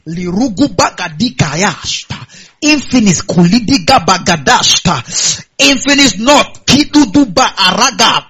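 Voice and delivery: slow, earnest prayer in tongues; praying in tongues. Pretend. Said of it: "begin to declare and say".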